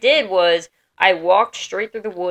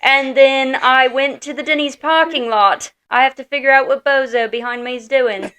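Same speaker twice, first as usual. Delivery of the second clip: imitating Ginny; 5 semitones higher, 3 dB louder than usual. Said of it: "That's how she talks".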